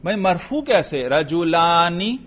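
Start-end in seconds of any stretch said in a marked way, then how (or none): 1.1-2.2 رجلانی slowly, ending in a clear ni; kasra under nun. Shown as a demonstration. Teacher posing a classmate's objection about nun, drawn out. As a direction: draw out رجلانی and land on the ni. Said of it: "نون کے نیچے تو میں زیر پڑھ رہا ہوں".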